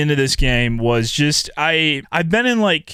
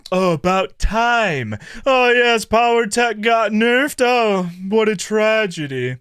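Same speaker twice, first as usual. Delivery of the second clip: smug snob; 5 semitones higher than usual. Retold or imitated. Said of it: "twirling your little wine glass".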